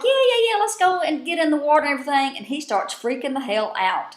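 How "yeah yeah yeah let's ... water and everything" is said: high, eager yeah-yeah, then a quick run of words; mock gung-ho player rushing everyone to the water; hammed-up eager cheer that drops back down; imitating Ozzy's eagerness. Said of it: "and Ozzy's like".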